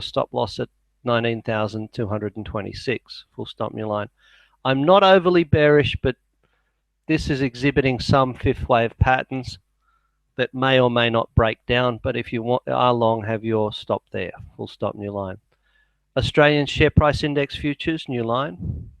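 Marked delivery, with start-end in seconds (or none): 3.4-4.1 softer aside dictating punctuation. Real, not acted. 14.6-15.4 softer aside dictating punctuation. Real, not acted. 18.1-18.9 softer aside dictating punctuation. Real, not acted.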